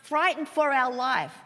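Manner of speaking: mock panic, pitched high at first then easing down; mildly acted alarm, high urgent plea; freaking-out disciples. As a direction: imitate frantic disciples waking someone up. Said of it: "disciples start freaking out".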